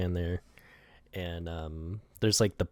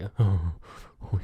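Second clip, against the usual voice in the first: long strained mock exhale; concentrating hard; 4 dB louder than usual. Acting out Cactus Cop sweating over the bomb, effortful breath. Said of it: "concentrating really hard".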